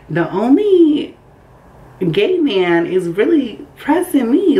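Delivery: high, drawn-out disbelief; offended, slow and rising in pitch; indignant disbelief. Retold or imitated. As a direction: stretch it out, high and incredulous. Retelling her indignant disbelief at him.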